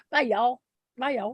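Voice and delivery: imitated Southern goodbye; mock Southern accent. Host mocking a departing guest's goodbye, Southern accent. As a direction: playfully copy her Southern accent. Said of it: "I'm mocking her accent".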